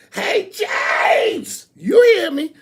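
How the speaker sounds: high, loud call across the room. Real, not acted. Host calls out to a friend in the crowd, loud call. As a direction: shout his name to reach him.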